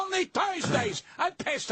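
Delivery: high, slow sarcastic sneer; mocking sneer. Mocking the comics who brag about their Thursday spot, high and slow. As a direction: stretch it out, dripping with scorn.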